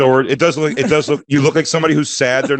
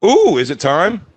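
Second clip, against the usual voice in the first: mock excitement; 5 semitones higher, slower than usual. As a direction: tease it as if it's a big moment. Mock excitement at diet time.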